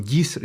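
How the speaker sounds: "Yis-" with a heavy hard Y, cut off; exaggerated wrong accentuation. Shown as a demonstration. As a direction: punch the buzzy first syllable "Yis-". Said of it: "algunos la acentúan".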